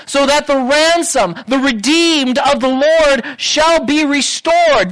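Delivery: rising, pleading prayer voice; impassioned prayer. Acted. Pastor praying aloud for God to wake up, impassioned. Preacher voicing the people's prayer.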